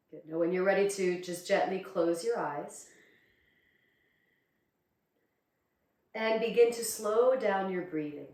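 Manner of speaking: calm, unhurried meditation guidance with long pauses; guided meditation. Acted. Teacher guiding students to close their eyes and breathe, calm meditation voice. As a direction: ease them inward, leaving space between phrases.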